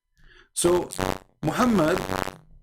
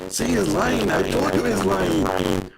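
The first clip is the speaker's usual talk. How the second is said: mock accusing; 9 semitones higher, much slower than usual. Muslims voiced accusing.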